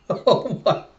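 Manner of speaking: laughing through the words, slow, the second part breathless; real laughing. Real, not acted. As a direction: crack up at the silly name. Reader cracks up at name.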